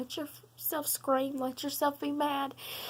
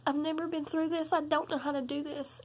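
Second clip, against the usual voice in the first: retold crying. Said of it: "I remember saying".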